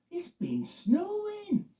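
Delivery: slow, high, gentle voice; Loretta. Acted. Loretta telling Eddie about the snow, slow and gentle. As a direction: let her savour the news.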